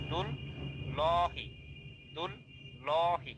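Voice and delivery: ল spelled out as a long rounded "lo"; heavy ল before হি; full "lo" sound. Shown as a demonstration. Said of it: "দুল লা হি কিন্তু না".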